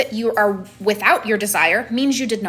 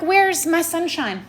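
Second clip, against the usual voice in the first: mock outrage; 6 semitones higher than usual. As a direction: wail like a cheated tourist. Outraged over missing sunshine.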